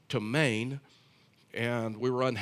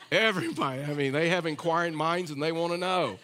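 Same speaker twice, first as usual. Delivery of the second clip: laughing while talking; 3 semitones higher than usual. Real, not acted. Laughing at the eavesdropping passengers.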